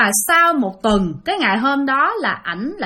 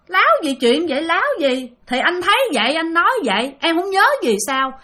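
arguing back; 5 semitones higher than usual. Retold or imitated. Husband arguing back with wife.

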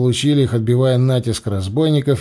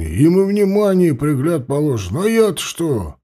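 lightly voiced old veteran, brushing it off; grumbling old soldier. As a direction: shrug off the wound like a gruff old soldier. Old soldier Lavr speaks.

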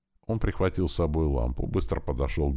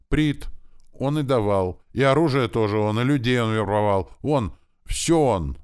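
high, loud frantic confession; panicked blurting; 7 semitones higher, 6 dB louder than usual. Acted. Captive screams every answer at the torturer, panicked. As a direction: shout it out in terror.

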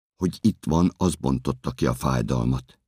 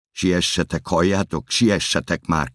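raised, higher urgent call; urgent shout; 4 semitones higher than usual. Acted. Guard hurrying others toward the woman, urgent shout. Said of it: "kiabálok".

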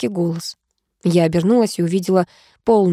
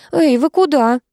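shout after them; 7 semitones higher, slower than usual. A narrator's reading. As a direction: yell after people who are leaving. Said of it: "она закричала".

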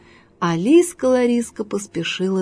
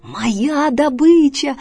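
slow, higher, greedy claim; possessive fox; 4 semitones higher, much slower than usual. Acted. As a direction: stretch it out, staking your claim.

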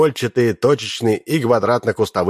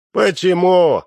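surprised; 9 semitones higher, 4 dB louder, slower than usual. A narrator's reading. Startled question to warning.

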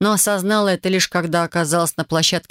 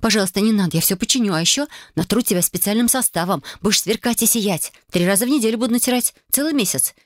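higher, eager bargaining; coaxing; 4 semitones higher than usual. Acted. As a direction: sweet-talk the angry handle. Героиня уговаривает ручку не жаловаться. (заискивающе уговаривая ручку)

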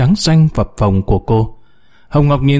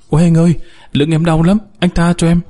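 higher, fast pained plea; mild mock scream; 5 semitones higher, faster than usual. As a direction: beg in pain, understated. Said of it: "thét lên". (kêu van đau đớn, nhẹ nhàng)

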